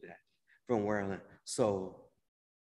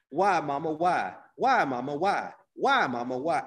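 louder, higher repeated wailing question; brother's repeated cry; 5 semitones higher, 8 dB louder than usual. Retold or imitated. Younger brother at father's casket asking mother, louder pleading. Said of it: "all he kept saying".

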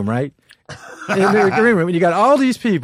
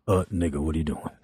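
low, fast, offhand mumble; lazy Paul voice; 13 semitones lower, 9 dB quieter than usual. Retold or imitated. Paul invites the comic on tour, low and offhand. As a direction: toss it off like a casual offer. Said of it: "Paul walks over and goes".

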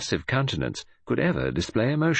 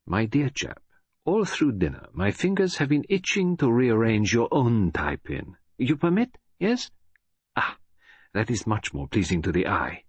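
fussy Belgian detective, pleased; Poirot voice; 3 semitones higher than usual. Acted. Poirot fixing Japp's tie-pin, fussy and fastidious.

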